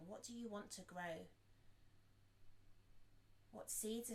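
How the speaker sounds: unhurried reflective guidance, long silences between thoughts; guided meditation. Acted. Teacher guides listeners to reflect on intentions, guided meditation. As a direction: pose each thought gently and leave room after it.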